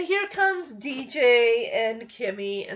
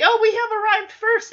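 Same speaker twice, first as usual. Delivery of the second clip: higher, louder hammed-up smug claim; mock proud announcement; 11 semitones higher, 8 dB louder than usual. Losing team wrongly boasting to host, mock proud voice. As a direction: play it like a clueless proud contestant.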